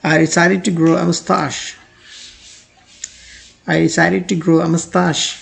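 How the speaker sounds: very slow, clear example sentence; slow model sentence. Shown as a demonstration. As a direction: read it slowly for learners. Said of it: "example read slowly twice". (बहुत धीमा उदाहरण वाक्य)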